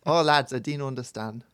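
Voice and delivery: loud mock Geordie attempt; Geordie accent. Co-host's big Geordie performance, joking accent. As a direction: put on a not-quite Geordie accent. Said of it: "I can do one".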